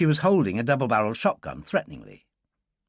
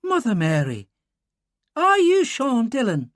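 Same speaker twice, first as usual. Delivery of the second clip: put-on higher, stunned Irish girl; amazed Irish girl; 11 semitones higher, 3 dB louder than usual. Girl realizing who he is, amazed Irish voice. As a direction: gasp it out in disbelief.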